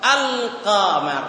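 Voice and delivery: "อัล กอมัร" split, the l clearly sounded; lam pronounced. Shown as a demonstration. Teacher insisting the lam must be there, lam sounded. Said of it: "ต้องมีลามด้วย".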